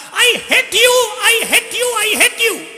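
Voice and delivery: high, loud, drawn-out angry yell; child shouting I hate you at the jungle; yelling in anger. Acted. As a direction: scream it into the forest, hurt and furious. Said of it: "चिल्ला चिल्ला कर कहने लगा".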